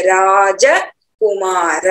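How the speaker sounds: राजकुमार with every syllable said in full; slow राजकुमार, the a after ज kept. Shown as a demonstration. Teacher repeats राजकुमार in full syllables. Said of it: "पूरा अक्षर बोलेंगे".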